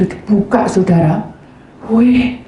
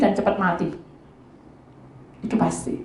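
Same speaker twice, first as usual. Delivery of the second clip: ordinary talk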